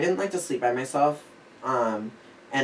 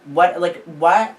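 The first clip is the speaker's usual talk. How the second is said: baffled; 4 semitones higher, 8 dB louder, much slower than usual. Retold or imitated. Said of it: "So I'm like".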